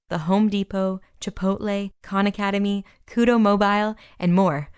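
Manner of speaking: running out of breath on a long list; breathless from reading fast. Real, not acted. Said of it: "Whew, I'm out of breath".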